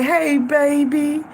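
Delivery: drawn-out mama greeting; imitating mama. Mama greeting her daughter on the phone, drawn-out greeting. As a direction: lightly voice mama, stretching the words slowly. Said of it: "That's how she always talked to me".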